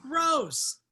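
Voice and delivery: loud, high cry of disgust; loud disgusted outburst; disgusted outcry. Acted. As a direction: recoil loudly at the idea. Disgust at wing suggestion.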